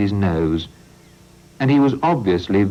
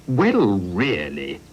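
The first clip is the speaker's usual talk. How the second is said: stormed; much slower than usual. Acted. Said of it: "stormed the mayor".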